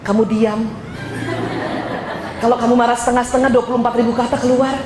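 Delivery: quick, laughing joke in the husband's voice; teasing husband. Retold or imitated. Husband joking to wife about her chatter, laughing fast. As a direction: rattle it off fast through laughter. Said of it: "dia suka bercandain saya".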